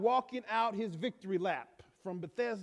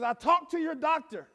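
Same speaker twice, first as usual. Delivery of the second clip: wailing, a little higher and louder; mock wail; 6 semitones higher, 5 dB louder than usual. Wife wails the doctor's news to her husband, hammed-up. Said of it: "she wailed".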